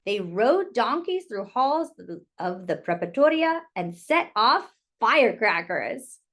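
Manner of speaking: gentle, lilting picture-book reading; reading to children. Acted. Teacher reading a picture book to children, gentle and lilting. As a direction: read it like storytime for little kids.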